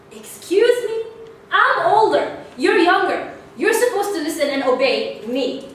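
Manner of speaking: loud, high, indignant bossing; bossy big sister. Retold or imitated. Older sister ordering little sister to obey, indignant. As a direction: demand obedience, mock outrage.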